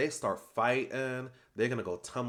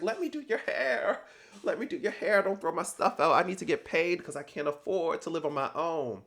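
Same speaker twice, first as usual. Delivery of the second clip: imitating a desperate pleading voice, pitched much higher; mock pleading Kelsey; 5 semitones higher than usual. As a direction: beg like your paycheck depends on it, up high. Kelsey begging to keep her job.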